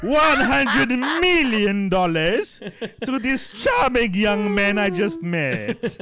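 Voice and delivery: slow, drawn-out grand demand; hammed-up phone demand; mock request. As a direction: stretch every word like a pompous caller. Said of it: "pretend bank call".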